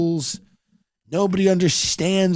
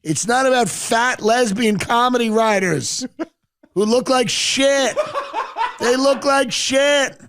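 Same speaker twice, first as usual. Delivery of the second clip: Rick speech; 8 semitones higher than usual. Retold or imitated. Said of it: "He's clapping".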